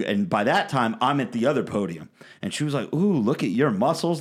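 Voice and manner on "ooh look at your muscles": lightly voiced flirty woman, a bit higher; mild mock flirting. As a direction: coo it flirtatiously, as mimicry. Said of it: "They're, like, flirting with us".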